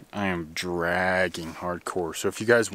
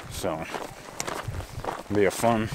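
talking around a seed; seed in the mouth while talking; mouth full. Real, not acted. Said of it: "sorry, I had a seed in my mouth".

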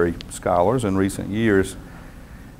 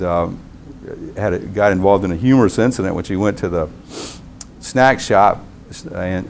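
normal talking voice

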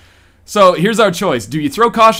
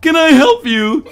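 higher, drawn-out offer of help; slow, lilting question pitched up; bartender; 11 semitones higher, 6 dB louder than usual. A narrator's reading. Bartender asks Cindy if he can help, higher and drawn out. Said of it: "he asks Cindy".

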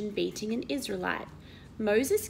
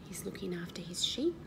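whisper; 4 dB quieter than usual. Real, not acted. Hushed picture commentary.

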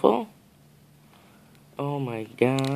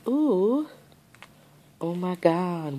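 high, squealed ooh; delighted ooh; 5 semitones higher, slower than usual. Real, not acted. Squealing to the camera at the curved bows. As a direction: let it leap up in delight.

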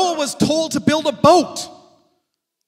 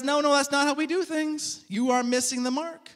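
gentle correction; 7 dB quieter than usual. Retold or imitated. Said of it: "And God says".

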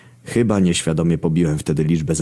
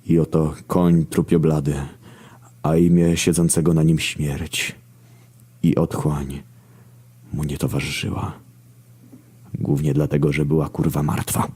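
mock scripture recital. Narrator parodying the horsemen of Revelation, solemn recital.

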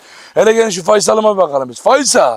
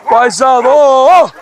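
cheering him on; 5 semitones higher, much slower than usual. Real, not acted. Cheering the running donkey.

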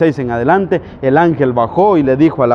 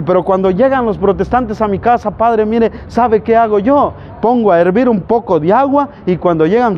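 higher imitated churchgoer; pious village woman; 6 semitones higher than usual. Parishioner telling the padre her method, higher imitated voice. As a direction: lightly voice a devout woman confiding proudly. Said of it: "la rezandera del pueblo".

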